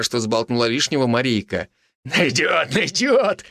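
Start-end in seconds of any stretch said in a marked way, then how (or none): 2.0-3.4 higher, cackling repeat; gleeful old man. Acted. Old man gloating at the captive wife, gleeful. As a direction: gloat over the words. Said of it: "хохотал довольно старик".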